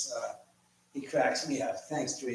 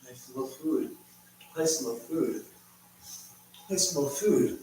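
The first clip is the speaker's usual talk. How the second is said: begging dog voice; 6 semitones higher, slower than usual. Retold or imitated. The dog begs his owner for food, building to a high whining shout. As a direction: whine for food like a hungry dog, getting more desperate. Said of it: "looking me in the eye going".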